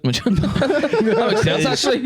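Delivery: high laughing voice, very slow. Real, not acted. Laughing at being dead.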